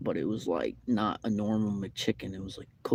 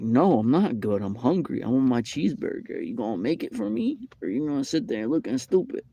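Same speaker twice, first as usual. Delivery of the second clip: imagined comeback; 2 semitones higher than usual. Retold or imitated. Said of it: "that's what I'm thinking in my head".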